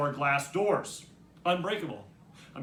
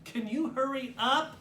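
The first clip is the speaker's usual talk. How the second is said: high, drawn-out sister's yell; impatient yell; 8 semitones higher than usual. A narrator's reading. Jen hurrying her brother out of the shower, yelling. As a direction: call slowly through a closed door. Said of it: "yells Jen".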